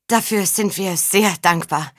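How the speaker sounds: thin, slow, timid voice. Acted. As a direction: speak thinly, barely holding steady. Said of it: "sagte Faun mit dünner Stimme".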